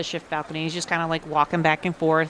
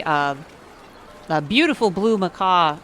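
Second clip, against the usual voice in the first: normal talking voice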